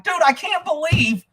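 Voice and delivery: high-pitched, animated type-A complaint; retold loud phone talk. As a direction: re-enact an emphatic phone complaint, pitched well up. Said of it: "I fucking talk loud".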